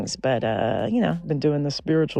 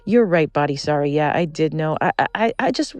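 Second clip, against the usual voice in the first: louder, apologetic backing down; sheepish brain; 4 semitones higher, 5 dB louder than usual. Retold or imitated. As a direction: concede like you got caught out. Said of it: "And the brain's like".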